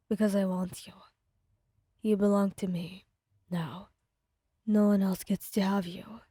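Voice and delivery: possessive villain. Acted. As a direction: claim her, cold and low. Bakugo voiced by narrator.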